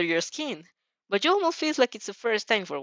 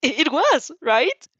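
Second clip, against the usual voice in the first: loud, high, stammering check; excited stammer rising to a question; eager, excited; 8 semitones higher, 7 dB louder, slower than usual. A narrator's reading. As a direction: seek agreement eagerly. Shadow excitedly seeks agreement.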